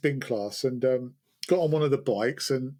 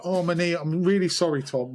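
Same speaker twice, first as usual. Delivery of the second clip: faked injury; 2 semitones higher than usual. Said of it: "I had to fake an injury".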